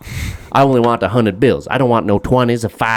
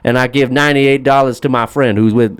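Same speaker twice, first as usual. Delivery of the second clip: a hint of a breezy rich guy, higher; mock Steve Harvey; 4 semitones higher than usual. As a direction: lightly play the carefree spender, up high. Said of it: "It's like".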